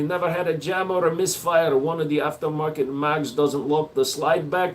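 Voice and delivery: light put-on Russian accent. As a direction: keep up the mock Russian. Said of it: "I'm done with the Russian".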